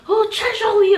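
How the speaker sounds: high, loud, hammed-up French accent; faux French accent. Shown as a demonstration. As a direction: put on a silly French accent. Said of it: "a faux French accent".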